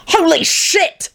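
high, drawn-out startled yell. A narrator's reading. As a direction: yell it out in disgust. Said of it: "he yelled and leapt".

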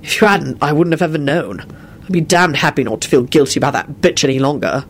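mildly gruff confession; a touch of gruffness. Acted. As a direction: say it a bit roughly, understated. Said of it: "he finished gruffly".

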